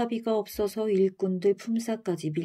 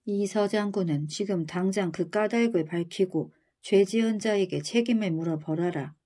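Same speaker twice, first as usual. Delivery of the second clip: angry command. Acted. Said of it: "성난 목소리로 명령했어요".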